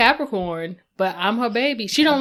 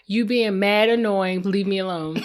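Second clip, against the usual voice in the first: slow brush-off; slower than usual. Retold or imitated. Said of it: "Now I be like".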